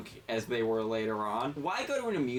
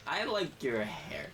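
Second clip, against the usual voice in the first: put-on slurry drunk fan, pitch jumping up; drunk woman. Drunk woman gushing over his hair. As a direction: play the tipsy stranger gushing.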